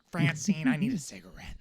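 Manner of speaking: high, loud, camp cartoon alien voice; high camp alien whine to his wife; Roger from American Dad. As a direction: demand it like a dramatic cartoon alien. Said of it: "now you have to be Roger from American Dad".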